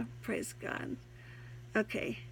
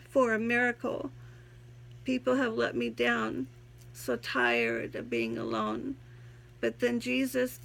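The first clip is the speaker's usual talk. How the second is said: poem reading; 2 semitones higher than usual. Acted. Reads her own poem aloud.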